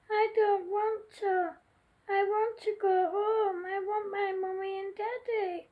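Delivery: small tearful voice pleading for home; a frightened baby sobbing for her parents; crying child. Acted. Lost baby dolphin to rescuers, tearfully pleading. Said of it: "cried baby Ezra".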